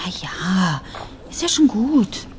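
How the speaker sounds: grudging whisper; library whisper. Acted. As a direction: whisper it back, a bit annoyed. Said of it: "Psst, nicht so laut".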